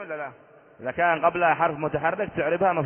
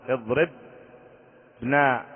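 drawn-out example word; much slower than usual. Shown as a demonstration. Teacher giving students an example verb, اضربنا very slowly drawn out. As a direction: say اضربنا very slowly, stretching every syllable. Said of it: "teacher reads example verb".

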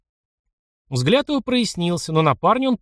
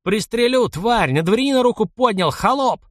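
furious shout; 9 semitones higher than usual. Acted. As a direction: scream a threat at the peasant. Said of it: "закричал, брызгая слюной". (яростный крик, выше и громче)

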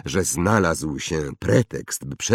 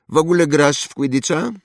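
put-on higher, louder haughty boy voice; snobbish boy; 10 semitones higher, 5 dB louder, faster than usual. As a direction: play a spoiled rich boy. Draco voiced. (wyższy głos zarozumiałego chłopca)

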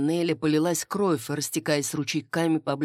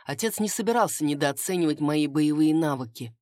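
plain reading voice

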